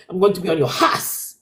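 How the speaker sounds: a hint of a Haitian accent; lightly put-on Haitian accent. Shown as a demonstration. Showing how Athena should threaten, Haitian accent. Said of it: "with the appropriate Haitian accent".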